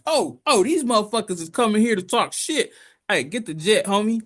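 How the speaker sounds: mock alien getting worked up; riled-up alien. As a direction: rouse the crew to grab the jet. Aliens rally to fight back.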